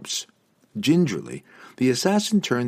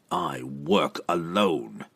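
slow, quiet insistence; understated firm refusal; insisting; 2 semitones lower, 4 dB quieter, much slower than usual. Acted. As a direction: flatly refuse the escort, slowly. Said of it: "Entreri insisted".

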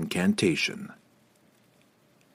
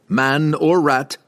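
scowling; 5 semitones higher, 4 dB louder, slower than usual. A narrator's reading. Wulfgar scowling.

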